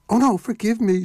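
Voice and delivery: high, tearful begging; sobbing plea. A narrator's reading. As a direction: beg forgiveness through tears. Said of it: "she sobbed".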